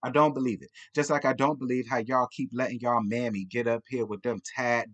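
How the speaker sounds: normal talking voice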